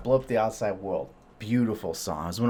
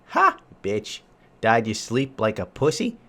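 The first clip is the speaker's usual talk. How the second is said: mocking gloat; 3 dB louder than usual. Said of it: "at first I was like".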